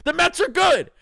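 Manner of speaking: a mock-whiny fan conceding, high and pleading; hammed-up surrender. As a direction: throw your hands up and beg them to stop. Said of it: "Q Drewski with his hands up".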